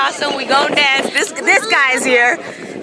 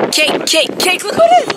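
squealing high, loud hello; excited greeting; 11 semitones higher, 3 dB louder than usual. Real, not acted. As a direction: shriek with joy at a friend.

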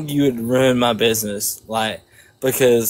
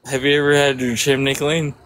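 put-on Southern accent. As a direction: lay on a Georgia Southern accent. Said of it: "I got that southern accent".

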